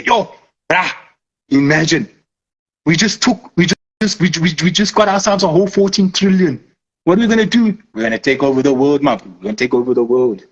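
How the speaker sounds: mock hustler dreaming big; lightly voiced bruh-talk plotting world domination; scheming trader. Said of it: "I think they talk like that".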